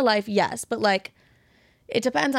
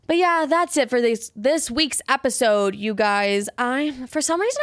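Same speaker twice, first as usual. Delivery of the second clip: out of breath; 3 semitones higher than usual. Real, not acted. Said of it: "I'm out of breath".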